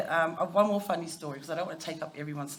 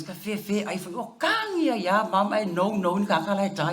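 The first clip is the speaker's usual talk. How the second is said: loud, laughing mala lingo imitation; a loud, laughing take-off of how the sister talks; sister's mala lingo; 3 semitones higher, 8 dB louder than usual. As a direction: rattle off her funny slang loudly. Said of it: "She goes".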